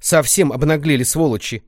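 loud, high angry exclamation; indignant outburst. Acted. Grandma fumes about the cheating shop, indignant outburst. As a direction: spit out the outrage. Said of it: "возмутилась бабушка".

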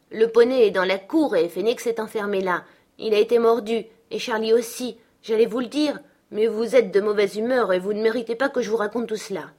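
un peu plus haut, taquine; fillette boudeuse. Acted. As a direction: Catherine nargue sa gouvernante. Catherine boude. (gamine boudeuse et insolente)

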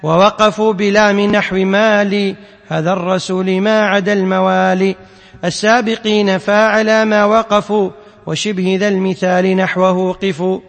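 measured chanting of verse lines; poem recitation. Acted. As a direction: intone the poem line by line like a teacher. Teacher chants the didactic poem. (إنشاد الأبيات بتنغيم)

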